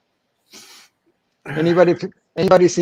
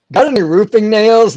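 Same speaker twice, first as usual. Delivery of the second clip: duck voice; 7 semitones higher, 9 dB louder than usual. Retold or imitated. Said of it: "and he said".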